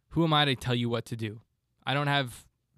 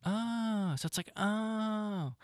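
deflated sigh; 7 semitones higher, 9 dB quieter, much slower than usual. Pretend. Mock deflated.

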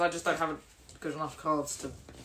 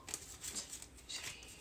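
barely audible, half-whispered numbers; counting under breath; 3 semitones lower, 22 dB quieter, slower than usual. Real, not acted. Player recounting a hand of cards, counting under their breath. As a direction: recount very softly to yourself.

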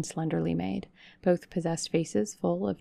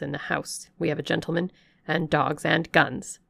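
put-on louder old servant threatening; warning servant; 4 dB louder than usual. Servant warning the vagrant of guns and dogs, stern. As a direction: warn her off firmly.

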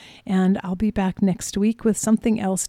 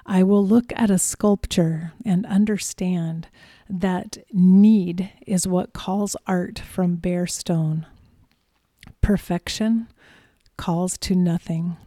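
poem reading. Shown as a demonstration. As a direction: read it like a spoken poem. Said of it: "I wanted to read a poem to you".

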